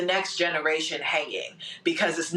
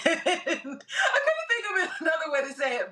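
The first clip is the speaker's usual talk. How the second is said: giggling through the words; laughing; 12 semitones higher than usual. Real, not acted. Panelist laughing at her own metaphor, giggling. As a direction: laugh at your own clumsy phrasing.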